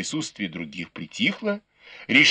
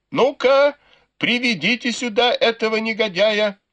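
гневный приказ криком; 11 semitones higher than usual. A narrator's reading. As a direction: order the scoundrel brought in, bellowing. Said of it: "закричала матушка Дзя". (громкий гневный приказ, голос высоко вверх)

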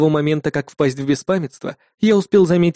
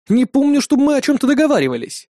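higher, faster indignant protest; indignant outcry; 10 semitones higher than usual. A narrator's reading. Hero protesting the summoning terms, indignant and high. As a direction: choke out the outrage. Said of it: "чуть не воскликнул я, подавившись от возмущения".

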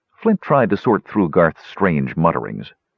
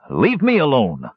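a touch of fear, higher; mild fear; 6 semitones higher than usual. Acted. Scared Garth pleads with Flint, mild fearful plea. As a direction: pull away, mildly scared. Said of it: "Garth said fearfully".

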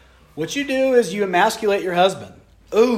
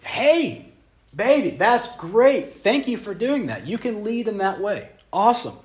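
sweet to wife; 3 semitones higher, slower than usual. Retold or imitated.

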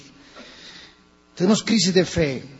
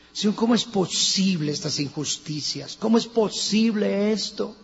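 Habakkuk crying out to God; 4 semitones higher than usual. Retold or imitated. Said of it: "como luchó el profeta Habacuc".

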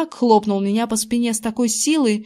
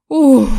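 relieved exhale; 4 semitones higher, 10 dB louder than usual. A narrator's reading. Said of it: "выдохнул он с облегчением".

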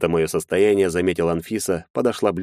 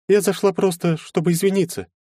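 lightly voiced young woman; 12 semitones higher than usual. A narrator's reading. Anfisa apologizing to Maxim, higher girlish voice. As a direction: play the shy girl saying sorry.

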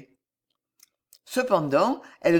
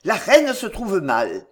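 louder, slow announcement of trouble; raised voice, slowed with dismay; alarmed cry; 5 dB louder than usual. A narrator's reading. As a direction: call out the alarm, drawn out. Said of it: "cria Marillac en pâlissant".

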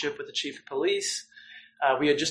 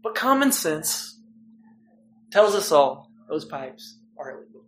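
hammed-up prosecutor making the case; prosecutor impression; 3 semitones higher than usual. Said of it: "That's my best, uh, prosecutor impression".

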